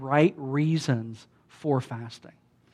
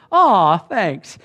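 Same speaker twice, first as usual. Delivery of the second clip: touched thanks; 3 semitones higher, 6 dB louder than usual. Retold or imitated. His reply to friend's confidence.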